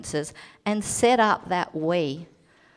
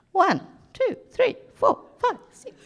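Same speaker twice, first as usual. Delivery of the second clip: excited counting; 13 semitones higher than usual. Retold or imitated. Retelling couples counting points excitedly.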